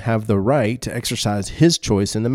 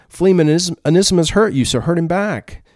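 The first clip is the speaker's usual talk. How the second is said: a touch raised and pushy; lightly voiced vengeful advice, a little higher; voice of human standards; 6 semitones higher than usual. Preacher voicing the world's advice, slightly raised and urging. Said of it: "Human standard says".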